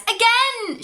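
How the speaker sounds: high, loud insistent demand; insistent cry. Acted. Nina insisting on another bounce, loud insistent cry. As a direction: insist with glee. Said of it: "she insists".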